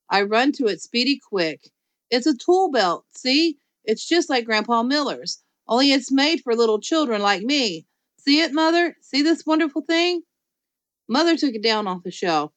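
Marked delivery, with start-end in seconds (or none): 2.1-10.2 put-on high, eager child voice; excited child. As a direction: gush over the tool belt. Junie B begging excitedly.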